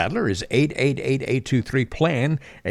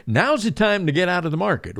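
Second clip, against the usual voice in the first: client quote; 4 semitones higher than usual. Retold or imitated. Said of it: "heard folks tell you".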